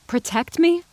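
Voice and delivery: scornful disbelief; incredulous. A narrator's reading. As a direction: throw his word back at him. Incredulous retort.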